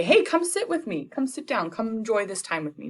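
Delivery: high, bright invitation to sit; light high party-guest voice; cheery guests. Retold or imitated. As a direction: call him over like eager hosts.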